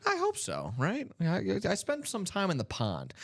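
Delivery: high, quacky duck voice. Acted. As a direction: talk like a cartoon duck. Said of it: "You do a good duck".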